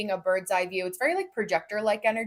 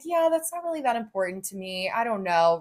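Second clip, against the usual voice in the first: indecisive. Shown as a demonstration. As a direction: mimic someone who won't take a stance. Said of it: "using the exaltation versus the detrimented aspect".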